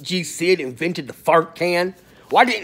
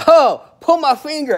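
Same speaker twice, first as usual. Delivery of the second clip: goofy prank line; 8 semitones higher, 7 dB louder than usual. Retold or imitated. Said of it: "He's just sitting there like".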